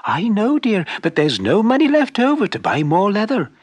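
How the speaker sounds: lightly voiced fretting wife; worried wife.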